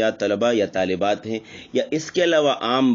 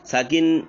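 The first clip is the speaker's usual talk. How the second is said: साकिन raised and stressed; emphasized term; 5 semitones higher than usual. Shown as a demonstration. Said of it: "साकिन की तरफ".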